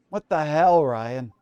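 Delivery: outraged shout. Acted. Embarrassed detective rebukes Ryan, outraged. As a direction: explode at him in disbelief.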